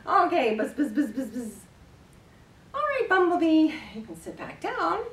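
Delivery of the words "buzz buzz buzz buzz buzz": playful bee buzzing. Pretend. Imitating a bee while tickling.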